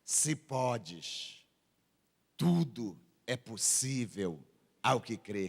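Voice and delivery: very low, soft, slow reply; hushed, deep-pitched quoted assurance; quiet answer. Retold or imitated. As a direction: answer the cry low and softly. Quotes Jesus answering the cry.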